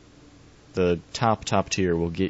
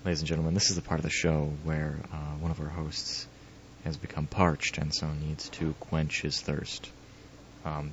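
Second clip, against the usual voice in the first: hushed mock announcer aside to audience; conspiratorial aside; 4 dB quieter than usual. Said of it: "in that tone that you can't hear me".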